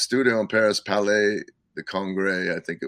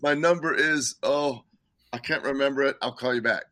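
put-on light English accent, a bit higher; 4 semitones higher than usual. A musician forgetting his number on tape, light English accent. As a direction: loosely mimic an English caller who forgot his number. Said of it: "I can't do his accent real good".

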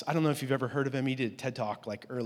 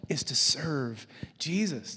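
whispered; slower than usual. Real, not acted. Preacher drops to whisper.

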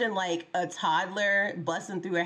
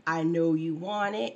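lower, slow delivery; 3 semitones lower than usual. Retold or imitated. Co-host quoting the creepy lyric, lowered voice. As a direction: drop it low and draw it out. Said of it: "in this lowered voice".

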